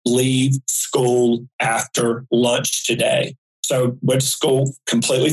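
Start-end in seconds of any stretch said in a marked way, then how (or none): 0.1-3.3 slow, deliberate, clearly spaced words; clear and stronger. Retold or imitated. Mysterious voice warning the child a second time, slow and clear. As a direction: repeat the warning slowly, a touch firmer. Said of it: "clear and stronger outside of me".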